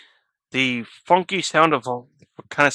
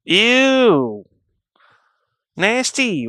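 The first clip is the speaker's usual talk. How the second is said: disgusted; 10 semitones higher, 3 dB louder, much slower than usual. Real, not acted. Reacting to gross fetish.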